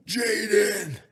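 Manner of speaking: high, frantic retold plea, slowing on the number; mock panic, begging her to call for help; panicked. Telling his partner Jaden to call nine one one, in high mock panic. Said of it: "I went to fucking straight panic mode".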